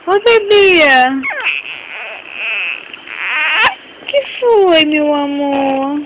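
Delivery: alta e aguda, acalmando o bebê; chame o bebê carinhosamente. Real, not acted. Calling to fussing baby. (voz aguda de mãe)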